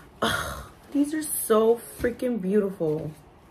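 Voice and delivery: tearful, overjoyed happy crying. Showing long-wanted new shoes on camera, the speaker is crying from joy. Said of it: "I'm freaking crying".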